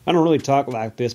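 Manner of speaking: playful redneck twang; put-on redneck accent. Host admitting the voice is a gimmick, redneck accent. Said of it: "talking like a redneck".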